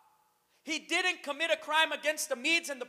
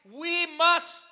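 "must" drawn out and punched louder; stress on "must"; 3 semitones higher, 3 dB louder than usual. Shown as a demonstration. Preacher quoting the verse, emphasizing "must". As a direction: lean hard on the word "must". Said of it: "I want to emphasize on the word must".

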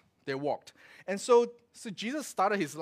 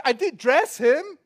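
mock indignant father; 6 semitones higher, 9 dB louder, slower than usual. Father defends himself in retold story.

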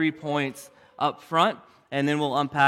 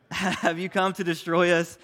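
laughing; 2 semitones higher than usual. Real, not acted. Giggling through demon's line.

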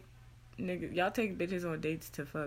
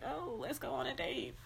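mock date invitation; 7 semitones higher, 4 dB quieter than usual. Acted quote of date invitation.

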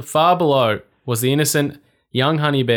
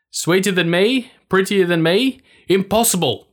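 high, indignant witch shrieking; outraged vain witch screech; furious witch; 7 semitones higher than usual. Acted.

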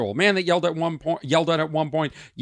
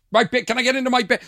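mock pleading; 8 semitones higher, 4 dB louder, faster than usual. Replays frustration at being interrupted.

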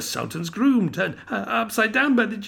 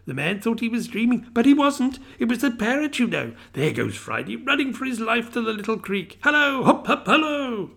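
put-on an old man thrilled by storybook memories; excited cry; 7 semitones higher than usual. A narrator's reading. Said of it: "cried Scrooge".

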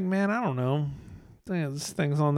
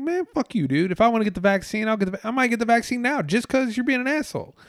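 retold comeback; 9 semitones higher, faster than usual. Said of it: "I'm like".

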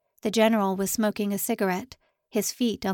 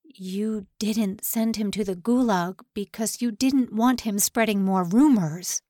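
angry accusation. Acted. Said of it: "both with anger and terror".

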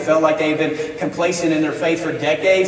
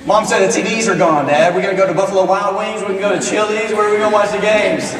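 higher, quick mock kid urgency; higher-pitched, urgent kid questions; imitating son; 4 semitones higher than usual. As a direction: act out a son pestering dad about the games. Excited son fretting over missed games.

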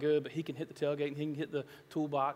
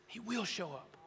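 quiet echo; 5 semitones higher, 7 dB quieter, slower than usual. Acted. Quiet echo after climax.

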